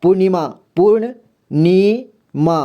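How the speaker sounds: पूर्णिमा said slowly twice; slow word demo. Shown as a demonstration. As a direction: sound out पूर्णिमा for the class. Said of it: "जैसे". (पूर्णिमा धीरे-धीरे बोलकर)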